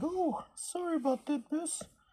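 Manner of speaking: very high, soft put-on female voice. Reading a female character's line aloud, speaker uses a female voice. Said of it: "reading with a female voice".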